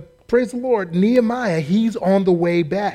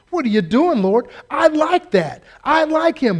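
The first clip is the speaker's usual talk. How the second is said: whiny protest; 9 semitones higher, 3 dB louder than usual. Pretend. Believer protests to the Lord.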